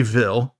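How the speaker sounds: "Vil" said for "will", with a v; mimicked pronunciation. Recapper mocking Creon's catchword, mimicked "Vil". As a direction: imitate his "Vil", v in place of w. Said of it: "two more times to say".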